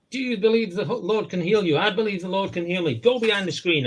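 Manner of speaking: a hammed-up televangelist grilling a believer; preacher voice. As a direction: question him like a TV faith healer. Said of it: "He said".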